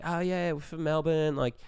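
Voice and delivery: lightly put-on Aussie accent; bad Australian accent. Pretending to be Melbourne rugby hopefuls, bad Australian accent. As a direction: fake a casual Australian accent. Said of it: "our accents were so fucking shit".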